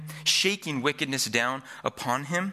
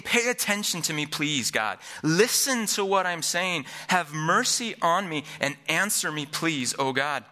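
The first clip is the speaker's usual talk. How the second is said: mildly raised, insistent pleading; desperate plea; 4 semitones higher than usual. Acted. David crying to God to be heard, desperate plea. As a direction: act out an urgent appeal, leaning on each request. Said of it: "You can hear the desperation in David".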